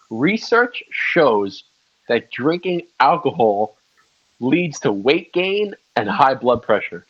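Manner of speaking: slow, measured headline reading; slow announcement with pauses between phrases; mock headline read. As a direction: spell out the headline slowly, phrase by phrase.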